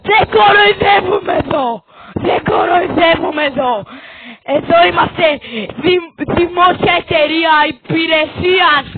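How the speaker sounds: bang it home like a mock preacher; mock scolding. Repeated mock scolding chant.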